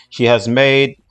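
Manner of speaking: read-aloud character bio. Acted. Streamer reading Cammy's bio to viewers, measured read-aloud. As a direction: read out the backstory formally.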